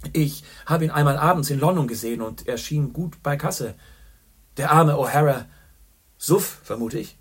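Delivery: loud, high, jovial barroom greeting; a boisterous journalist ordering whisky for his friend; hearty old pal. A narrator's reading. Boastful Gallagher greets Chandler, loud and jovial.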